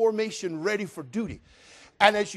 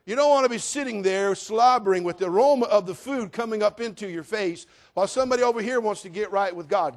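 ordinary delivery

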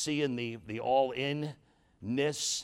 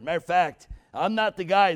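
preaching shout; 7 semitones higher, 11 dB louder than usual. Real, not acted. Preacher punches a point.

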